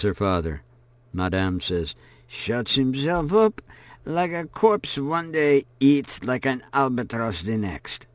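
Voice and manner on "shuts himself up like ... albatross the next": a hint of the old woman. A narrator's reading. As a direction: complain of Etienne as the hostess. Old woman describing Etienne.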